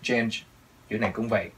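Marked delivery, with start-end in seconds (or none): 0.0-0.4 "Change" with its final "nge" sounded; clear ending sound. Shown as a demonstration. Teacher reminds learners of the ending, "Change" with audible final sound. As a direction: release the end of "Change". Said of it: "Âm đuôi".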